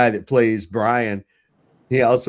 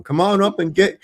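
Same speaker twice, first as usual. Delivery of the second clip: higher, taunting hillbilly yell; rock-throwing oddball; 9 semitones higher, 4 dB louder than usual. Retold or imitated. Gas-huffer taunting police from the church roof, high and mocking. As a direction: taunt the cops from a rooftop. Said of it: "he talked like that".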